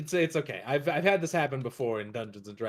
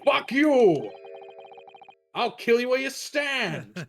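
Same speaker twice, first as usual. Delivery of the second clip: high, raised villain boast; hammed-up threat; 10 semitones higher, 4 dB louder, slower than usual. Character threatening an opponent as the Reaper, hammed-up fury. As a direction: crow the threat at a high pitch.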